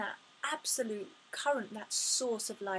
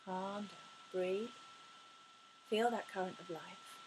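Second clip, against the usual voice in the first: calming self-talk; 2 semitones lower, 5 dB quieter than usual. Acted. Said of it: "I'm getting upset, getting emotional".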